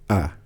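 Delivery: "Ah." kept low for repeating. Shown as a demonstration. Teacher leading the class in a low tone. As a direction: hold "Ah." down low. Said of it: "Say it with me".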